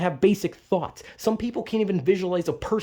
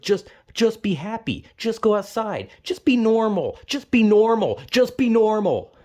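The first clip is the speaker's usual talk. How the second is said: louder each time, really worked up; heated repetition; 4 semitones higher, 4 dB louder than usual. Real, not acted. Ranting at family advice, louder and angrier. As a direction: hammer the phrase in real frustration. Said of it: "I'm getting very fucking heated".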